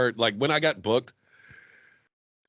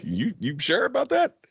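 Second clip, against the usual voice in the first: higher, rising doubtful query; mock doubtful question; 5 semitones higher than usual. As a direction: question their booking with a rising tune. Retold doubtful question to bookers.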